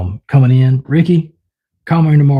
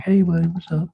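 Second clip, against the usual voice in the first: softer, higher hello to a pet; friendly pet greeting; 7 semitones higher, 5 dB quieter than usual. Retold or imitated. Owner retelling how he greeted his pet, friendly. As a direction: greet the animal gently, pitched up.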